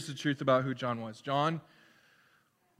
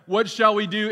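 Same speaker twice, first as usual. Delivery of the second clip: pleading crowd; 4 semitones higher, 5 dB louder than usual. Acted. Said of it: "John, you're telling us that we need to repent".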